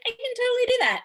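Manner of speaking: high, cocky boast; overconfident. Retold or imitated. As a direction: sure you can do it easily. Overconfident self from shore.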